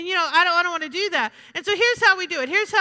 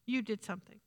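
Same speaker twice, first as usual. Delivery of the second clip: very low, hushed accusation; accusing enemy; 7 semitones lower, 12 dB quieter than usual. Acted. The enemy coming to blame the abandoned believer, quietly accusing. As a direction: plant the blame softly, deep in your register. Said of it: "the enemy will come and say".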